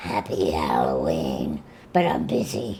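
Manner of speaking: very deep, low, soft and hushed demonic voice. Signing off for Halloween, the host answers as Pazuzu; Pazuzu voice. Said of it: "saying happy Halloween in the voice of Pazuzu".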